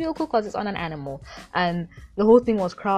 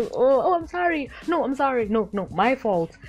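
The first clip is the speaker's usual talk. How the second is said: mock apologizing; 4 semitones higher than usual. Fighters apologizing, mocked.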